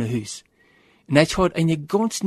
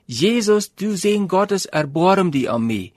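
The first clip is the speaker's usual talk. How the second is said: mock cry pitched up a little higher; calling out over the crowd, a touch louder; beggar's raised plea, not a full shout; 4 semitones higher than usual. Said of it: "En hij wordt immer lüder en immer lüder".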